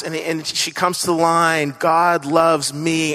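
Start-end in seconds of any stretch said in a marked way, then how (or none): 1.8-3.1 slow reading. Retold or imitated. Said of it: "she's reading through it in class".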